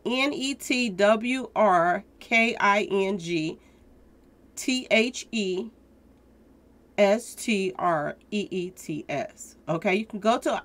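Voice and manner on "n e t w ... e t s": spelled out slowly. Shown as a demonstration. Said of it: "this is how they spell it".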